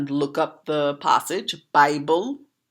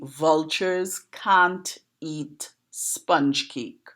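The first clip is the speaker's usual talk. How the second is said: slow standard English; much slower than usual. Shown as a demonstration. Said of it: "if you translate this into standard English".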